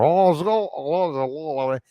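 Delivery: slurred, run-together mock drunk mumbling; high, garbled drunk impression; drunken man. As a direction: imitate a drunk, words melting together. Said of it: "literally like that, going".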